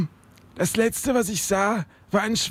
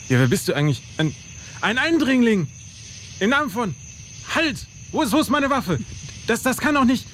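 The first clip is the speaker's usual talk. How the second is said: panicked, high; 3 semitones higher than usual. Acted. Panicked at an intruder.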